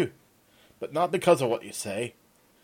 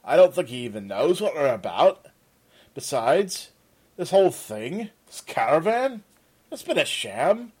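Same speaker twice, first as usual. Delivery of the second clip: rising to an angry, louder, higher accusation; accusing; 7 semitones higher, 9 dB louder than usual. Acted. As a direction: corner him, building to fury. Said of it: "Peter turned on the Arendani".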